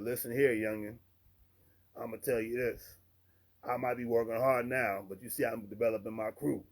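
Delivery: a lightly put-on Southern accent, imitating an older contractor; mild, self-mocking Southern accent from Louisiana. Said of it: "Excuse my terrible Southern accent".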